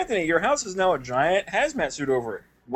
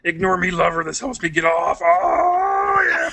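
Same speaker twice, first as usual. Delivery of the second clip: mock seductive; 3 semitones higher, 5 dB louder, slower than usual. Joke moaning bit.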